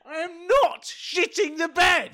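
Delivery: high laughing denial; 笑着否认. Real, not acted. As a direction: laugh out the protest. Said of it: "Sounds like you're losing control".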